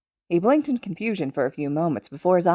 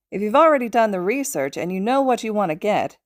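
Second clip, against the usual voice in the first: Hisashi, amused; 4 semitones higher than usual. Acted. Hisashi voiced in read story.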